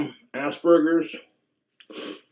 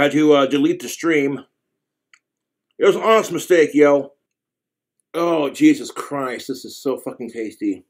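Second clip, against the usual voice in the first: chewing between words; talking while eating; mouth full; 3 semitones lower than usual. Real, not acted. Seen 2: holds fried food, mouth moving between bites during speech.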